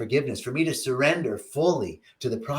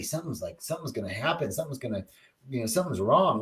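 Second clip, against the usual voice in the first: much softer, the worried thought murmured to yourself; a quiet voice in the head saying something is wrong; quiet anxious inner voice; 5 dB quieter, faster than usual. Shown as a demonstration. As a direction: drop right down as if hearing your own fear. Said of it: "I'm feeling, like, just anxiety".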